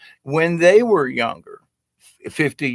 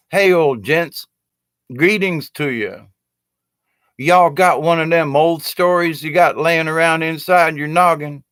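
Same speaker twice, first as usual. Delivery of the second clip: put-on folksy Southern accent, a touch higher; 4 semitones higher than usual. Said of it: "I can turn on my Southern humor".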